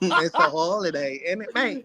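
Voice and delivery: laughing through a hammed-up British accent; mock British accent, laughing. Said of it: "sounding like Josh Giddey".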